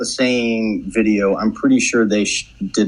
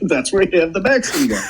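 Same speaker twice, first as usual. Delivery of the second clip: put-on laughing old-timey echo; 6 semitones higher than usual. Repeats bit laughing.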